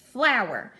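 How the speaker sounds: "flower" split in two syllables, FLOW-er; syllables clapped out. Shown as a demonstration. Teacher showing kids how to count syllables, clapping. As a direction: clap out "flower" in two beats. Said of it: "start here with flower".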